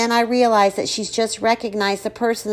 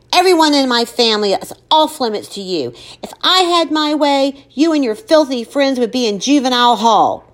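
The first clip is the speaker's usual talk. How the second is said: angry; 5 semitones higher, 4 dB louder than usual. Acted. Mother furious at Chase.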